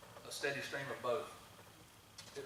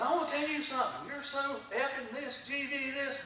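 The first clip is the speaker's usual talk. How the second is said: retold shouting, higher and louder; imitating a yell; 12 semitones higher, 5 dB louder than usual. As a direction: mimic an angry man yelling, slowed on the middle phrase. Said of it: "just screaming at me".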